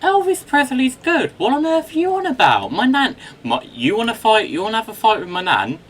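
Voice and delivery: loud, high, fast jokey indignation; mock outrage. Real, not acted. Defending his nan's love of a singer, in loud mock outrage. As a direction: playfully pick a fight over a singer.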